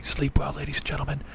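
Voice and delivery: soft unvoiced whisper; whispered goodnight. Shown as a demonstration. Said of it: "You don't wanna say".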